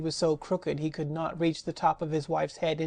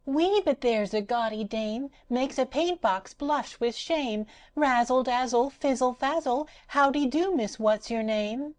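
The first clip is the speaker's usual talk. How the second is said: high, sing-song rag doll voice; Patchwork Girl exclaiming; 7 semitones higher than usual. Acted. Rag doll admiring herself in the mirror, high and gleeful. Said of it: "she exclaimed".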